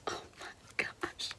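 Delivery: slow, hushed, almost no voice; slow awed whisper. Real, not acted. Reader finishing a moving devotional, slow whisper. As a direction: let it fall out slowly, overwhelmed.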